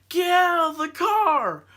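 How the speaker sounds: high, loud, drawn-out mock yell; retold urgent yell. Susan ordering friends out of the wrecked car, retold urgent yell. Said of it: "she was like".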